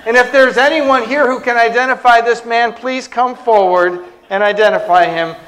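imitating an airport announcer; PA announcement. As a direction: address the whole terminal, calm and official. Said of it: "took the microphone for the P A".

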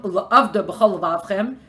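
La'avda B'chol Vavchem read at half speed, word by word; drawn-out La'avda B'chol Vavchem for the class; slow emphasis. Shown as a demonstration. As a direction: spell out each Hebrew word slowly. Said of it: "The Gemara takes this phrase".

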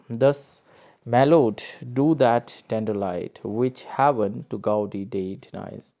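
slow, measured reading of verse; poem recitation. Acted. Teacher reading Byron's lines aloud to students, slow recitation. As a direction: read each line out slowly as a poem.

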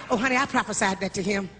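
mock the honey-talking braggart; bragging church lady. Mocking bragging church woman.

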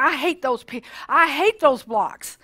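mildly voiced outburst, drawn out at the end; mock angry. Carlton fumes at the mean blocks, mock angry. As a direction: act out a touch of his anger, slowing down. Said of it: "He was so mad".

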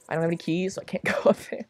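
soft unvoiced whisper; hushed whisper with a stifled laugh. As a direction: whisper it like a secret. Whispers aside while playing.

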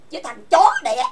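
loud furious insult; angry insult. Real, not acted. Insulting the man who keeps cheating people, loud angry insult. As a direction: hurl the insult. Angry rant at former partner.

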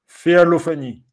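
normal talking voice

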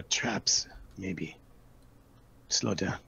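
hushed warning whisper. Acted. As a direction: breathe the warning softly. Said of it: "and whisper".

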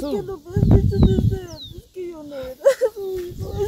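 hurt accusation. Acted. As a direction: confront her with the betrayal. Daughter confronts mother about adoption.

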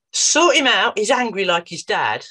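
imitating the curt mother; mother's blunt demand. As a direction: hand him over with a curt order. Mother dumping son at therapist.

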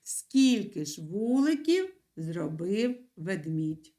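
slow, spelled-out dictation pace; teacher dictating the sentence for the pupils. Shown as a demonstration. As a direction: dictate it slowly so they can write. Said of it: "вам потрібно написати".

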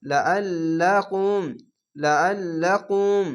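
slow লা আল্লাকুম with the ল্ল held; doubled lam. Shown as a demonstration. Teacher shows students the doubled lam, slowly. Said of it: "কয়টি বার লামটিকে উচ্চারণ করলাম".

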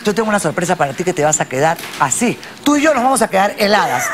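fast, laughing, giddy; nervous laughing. Real, not acted. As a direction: laugh through the nerves. Nervous excited host, laughing.

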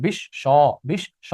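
বিশ্ব split as bish-sho, the sh doubled; final o sound. Shown as a demonstration. Teacher demonstrates the ending to students, বিশ্ব as bish-sho. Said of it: "অ থাকলে ও হয়ে যাবে".

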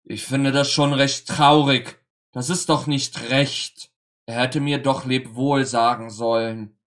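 etwas lauter, leicht gekränkter Vater; enttäuscht. Acted. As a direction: ein Hauch von Enttäuschung. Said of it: "sagte der Mann enttäuscht". (Vater ist gekränkt, dass der Sohn nicht Lebwohl sagte)

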